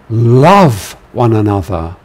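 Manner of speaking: firm command, stress on love. Shown as a demonstration. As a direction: press the word love. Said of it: "imperative, um, voice".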